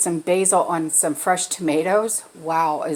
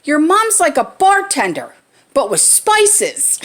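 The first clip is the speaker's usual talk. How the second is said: put-on higher, louder, amused teen aside; said loud enough; 8 semitones higher, 4 dB louder than usual. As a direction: say it so mom overhears, laughing at the end. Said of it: "he said it loud enough for me to hear".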